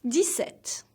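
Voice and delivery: "Dix-sept" as dee-SET; silent p and x. Shown as a demonstration. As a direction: say "Dix-sept" without sounding the p. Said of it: "the P is silent".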